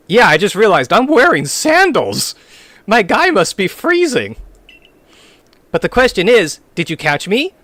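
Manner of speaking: character voice. Acted. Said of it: "how you do the voice act".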